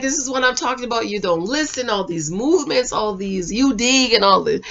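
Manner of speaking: retold complaint, voice dropped down; imitated quiet complaint. Voices her quiet complaint to him.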